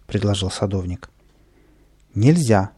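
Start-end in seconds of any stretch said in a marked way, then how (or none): 2.1-2.7 stern. Acted. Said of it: "строго сказал сержант".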